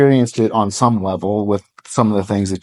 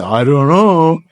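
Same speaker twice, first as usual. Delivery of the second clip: higher, lazy Southern I don't know; Southern drawl charm; 6 semitones higher, 4 dB louder, slower than usual. Retold or imitated. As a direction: shrug it off like a charming good old boy in a Southern drawl. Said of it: "does the good old boy Southern drawl charm".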